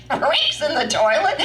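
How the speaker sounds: high, incredulous mock hilarity; cracking up. Sister on the phone hearing about trapped Rick, cracking up. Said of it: "her just crack up".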